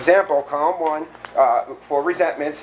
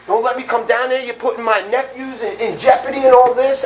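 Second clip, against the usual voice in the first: mild mock yell; 7 semitones higher, 3 dB louder than usual. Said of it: "He's yelling at me over the phone".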